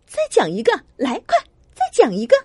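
fast, eager begging; eager pleading. Acted. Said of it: "妈妈急切地请求".

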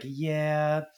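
high, held-out imitated reply; drawn-out mock confirmation. Character confirms the burning car.

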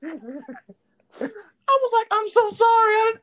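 high, words squeezed out through laughter; laughing while talking. Real, not acted. Recalling the unmuted mistake, breaking into laughter. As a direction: keep laughing as you talk.

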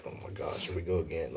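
near-whispered, retold inner reaction; overwhelmed aside. Man recalling tears coming after being called son, overwhelmed aside.

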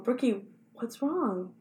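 put-on slow, gentle question to a little girl; tender. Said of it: "So I went up and I said".

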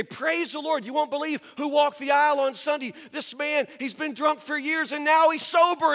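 high-pitched, eager announcing; mock-testimony excitement; excited good news. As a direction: share joyful news with a lifted voice. Acts out sharing exciting good news.

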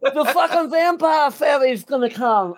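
high-pitched comic fretting; hammed-up panic breaking into a laugh; mock dismay. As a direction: whine it high, pretending disaster has struck. Mock dismay over lost fang.

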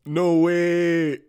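high loud laughing. Real, not acted. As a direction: burst out laughing in disbelief. Laughing at coincidence.

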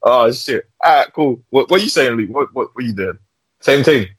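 normal talking voice

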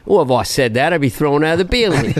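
rough attempt at an Australian accent; lightly voiced Australian comic. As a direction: play it with an imperfect Australian accent. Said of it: "Sorry, it's not my best accent".

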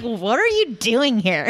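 slowed mock-angry kid line; a hint of a cranky toddler; angry twin. Host imitates the angry twin, slowed mock anger. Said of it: "his face gets all, like, angry".

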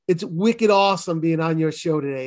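playful Boston accent; friendly Boston-accented show-off. Shown as a demonstration. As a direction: lay on your native Boston accent. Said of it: "you can do your Boston".

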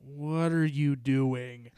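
slow, drawn-out dad question; mock dad. Dad catching son lip syncing, slow mock question. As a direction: drag it out like a puzzled dad. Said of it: "He's like".

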